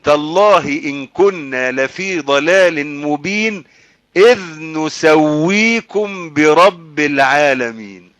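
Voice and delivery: very slow, elongated verse recital; slow Quran recitation. Acted. Preacher reciting the damned's oath to listeners, slow recitation. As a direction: hold each long vowel to the full.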